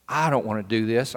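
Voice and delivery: rising, reluctant whine about the chore; whiny inner grumble. Retold or imitated. Boy thinking, sent to fetch Charles, whining. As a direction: sulk like a kid sent on an errand. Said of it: "I was really thinking".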